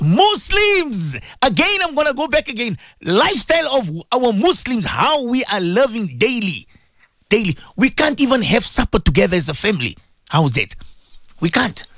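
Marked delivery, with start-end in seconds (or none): 0.0-9.3 rally the listeners with a preacher's call; impassioned preaching. Real, not acted.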